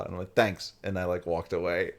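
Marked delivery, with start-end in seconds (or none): 0.3-0.7 a quick New York "Thanks."; a clipped local "Thanks." in the New York accent. Retold or imitated. Thanking the vendor, still in the New York accent. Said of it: "should have said thanks in a normal accent".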